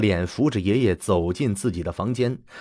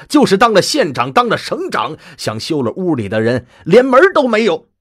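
indignant vow; 4 semitones higher, 4 dB louder than usual. Acted. Woman swears to defend her family.

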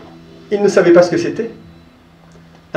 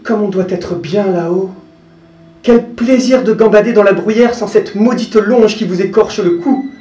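lightly voiced young goat, longing; wistful, gazing at the mountains; dreamy little goat; 5 semitones higher than usual. The goat talking to herself about the mountain, lightly longing. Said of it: "elle se dit en regardant la montagne".

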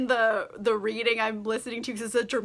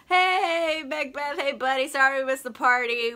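mock chummy greeting; 3 semitones higher than usual. Nobles arrive with a greeting.

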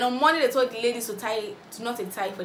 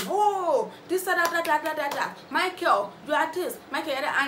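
high, loud imitation of Jenny shouting; mock shouting; 7 semitones higher, 3 dB louder than usual. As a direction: ham up a gloating shout while clapping. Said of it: "Jenny came in shouting, clapping".

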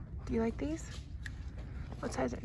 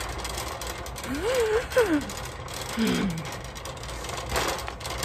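gasp for air; 4 semitones higher, 4 dB quieter than usual. Real, not acted. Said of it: "hard to breathe in this mask".

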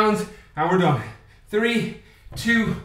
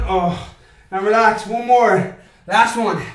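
loud coaching call; 5 dB louder, slower than usual. Real, not acted. Coach calls last round.

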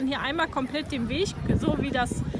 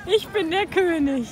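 loud proclamation; 4 dB louder, slower than usual. Shown as a demonstration. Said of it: "ganz laut was rufen".

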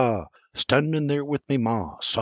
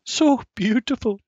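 Sarah murmuring; 12 semitones higher than usual. A narrator's reading. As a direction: breathe it out in admiration. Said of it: "Sarah murmurs".

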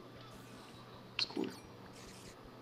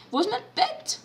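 panicked; 12 semitones higher, 3 dB louder than usual. Real, not acted. Panicked question.

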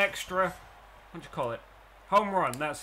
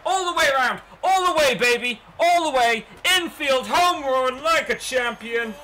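much higher, louder yelling at the runner; excited cheering; 8 semitones higher, 7 dB louder than usual. Real, not acted. Gamer cheering his runner round for a home run, wildly excited. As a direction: scream him round the bases. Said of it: "I just got too excited".

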